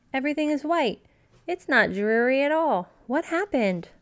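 wide-eyed wonder, rising high; amazed. Acted. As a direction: gasp at the sight. Cub amazed at snow.

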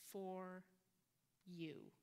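slow, with a long pause between "For" and "you", both words weighed; stress on for you. Retold or imitated. Priest to congregant at communion, slow emphatic "For you". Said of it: "He put a lot of emphasis on those two words".

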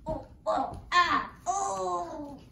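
short "oh" and "ah" yelps; mock cries of attack. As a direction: play grandma being gobbled up. Grandma being eaten by wolf.

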